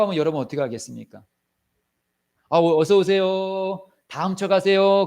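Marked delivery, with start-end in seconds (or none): 2.5-5.0 slow, absurdly polite greeting; mock welcome. Homeowner mockingly welcoming the robber, slow and polite. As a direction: play the fool who welcomes the thief, slowly. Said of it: "그러겠습니까?".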